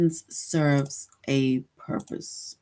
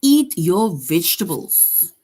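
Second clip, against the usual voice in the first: louder, slow, falling order with "Eat" punched; firm command; 6 dB louder, slower than usual. Shown as a demonstration. Teacher showing the class a command, firm and slow. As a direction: tell them to eat up, firmly. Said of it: "it is a command".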